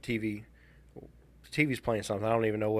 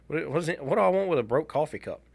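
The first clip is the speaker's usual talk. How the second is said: incredulous; 5 semitones higher than usual. Retold or imitated. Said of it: "I was like".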